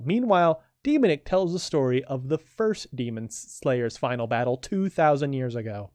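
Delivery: lightly announced next-episode preview; next-time teaser. Acted. Narrator previews the next episode for listeners, in a teaser read. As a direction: read out the teaser for the coming final battle.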